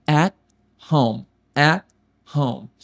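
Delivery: at home com o T quase sem som; T quase mudo. Shown as a demonstration. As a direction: mal solte o T de at. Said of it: "Esse T quase não tem som". (at home, T quase mudo)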